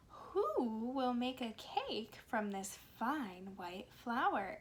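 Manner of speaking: put-on slow, lively storybook reading for little kids; reading to children. A narrator's reading. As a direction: read it like story time on the carpet. Reads picture book to children.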